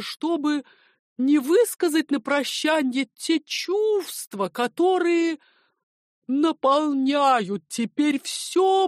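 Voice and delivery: put-on an old gentleman carried away by feeling; Gaev's emotional farewell. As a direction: sentimental uncle swelling to an impassioned slow cry. Gaev's farewell speech to house.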